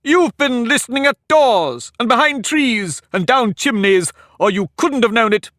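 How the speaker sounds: furious egg accusing Alice of eavesdropping; sudden passion. A narrator's reading. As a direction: burst out accusing her. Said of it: "breaking into a sudden passion".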